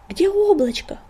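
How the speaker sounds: high urgent shouted question; shouting. A narrator's reading. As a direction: call out in alarm. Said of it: "кричал он".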